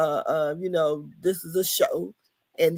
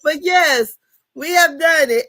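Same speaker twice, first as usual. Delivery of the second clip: excited; 6 semitones higher, 5 dB louder than usual. Real, not acted. Triumphant after finishing review.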